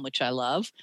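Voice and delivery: a fond little whisper tucked in; whispered aside. Real, not acted. Ghostwriter whispering a fond aside about the call site. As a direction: whisper "which I love" as a quick aside.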